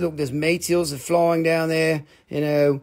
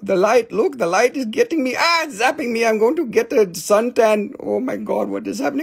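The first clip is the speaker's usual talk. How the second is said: high, hammed-up panic at the light; mock alarm; 6 semitones higher than usual. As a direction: pretend to be zapped by light. Pretend being zapped.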